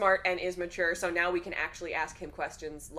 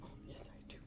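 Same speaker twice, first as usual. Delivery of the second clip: a tiny whispered dog voice, much softer; whispered dog reply; 21 dB quieter, much faster than usual. Retold or imitated. The dog Gimli answering dad about bed, whispered. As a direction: breathe it like a shy dog. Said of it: "he'll be like".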